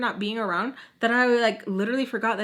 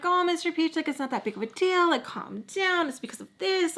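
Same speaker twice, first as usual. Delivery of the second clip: soothing; 8 semitones higher than usual. Retold or imitated. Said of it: "Everyone's trying to calm him down".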